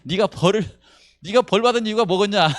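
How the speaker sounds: high, loud scolding question; accusing friends. Retold or imitated. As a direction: lecture him like a self-righteous friend.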